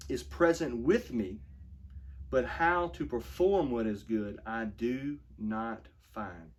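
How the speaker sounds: slow, weighty reading of the verse; slow scripture reading. Shown as a demonstration. Pastor reading Romans to his flock, slow and solemn. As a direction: let each phrase land slowly. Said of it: "let me read that again".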